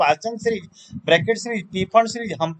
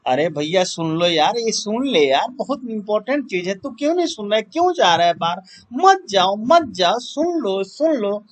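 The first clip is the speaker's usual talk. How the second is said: mock pleading; 2 semitones higher than usual. Teacher to students walking out, mock pleading. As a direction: beg them to stay and listen, playfully urgent. Begs leaving viewers to listen.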